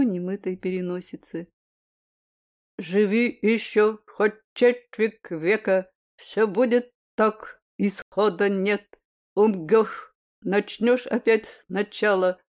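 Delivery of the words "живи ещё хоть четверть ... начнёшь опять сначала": slow recitation, r said as a throaty burr; says w for r. Acted. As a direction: burr every r in "Живи ещё хоть четверть века", slowly. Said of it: "картавя подхватил второй".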